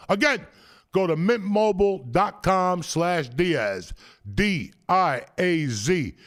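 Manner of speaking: upbeat sponsor read, slowing on key details. Acted. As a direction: sell the deal to listeners.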